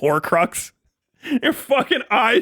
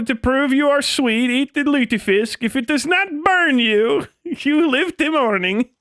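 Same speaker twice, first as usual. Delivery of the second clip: mock Swedish decree; 5 semitones higher than usual.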